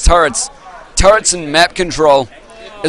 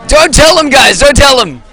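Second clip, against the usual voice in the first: playful plea; 8 semitones higher, 6 dB louder than usual. Real, not acted. Begging audience not to spoil.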